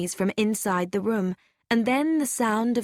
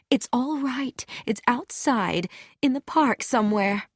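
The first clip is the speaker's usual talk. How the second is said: unmoved calm; 5 semitones higher than usual. A narrator's reading. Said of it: "still unmoved".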